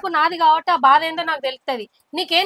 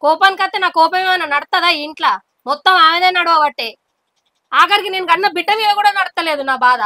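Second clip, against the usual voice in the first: aggrieved, raised-voice protest; loud angry complaint. Acted. Wife complaining to husband about sister-in-law's rule, raised angry voice. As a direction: vent your grievance with rising force. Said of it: "ఏందే గంత గట్టిగా మాట్లాడుతున్నావు".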